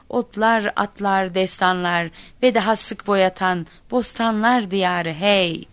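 slow, drawn-out school recital; poem recitation. A narrator's reading. Muddled child reciting the poem onstage, declaimed slowly. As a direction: declaim each line with solemn pride. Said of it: "bak nasıl okumuşum".

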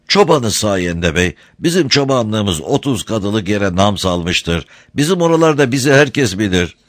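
a hint of a deferential herdsman; boastful humble shepherd.

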